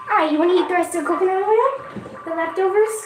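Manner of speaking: coaxing the dog to eat. Real, not acted. Talking to her dog.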